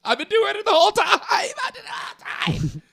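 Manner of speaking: high, loud, rushed gloating; Bert gloating. Retold or imitated. Bert brags back to the podcast host, fast and loud. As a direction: brag like you can't believe your luck. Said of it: "it's Bert like this".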